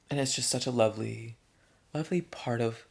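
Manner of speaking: talking through a yawn; words stretched by a yawn. Real, not acted. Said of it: "oh, I'm yawning".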